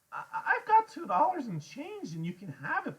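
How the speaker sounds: high, stammered offer; frightened pleading. A narrator's reading. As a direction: bargain nervously in a high kid voice. Frightened Freak offers his money.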